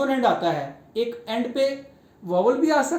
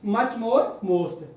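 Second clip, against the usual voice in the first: much more most said very slowly, each word held apart; slow teaching drill; much slower than usual. Shown as a demonstration. Teacher answers his own question for pupils, very slow. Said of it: "तो उसके लिए हम क्या लगाएंगे".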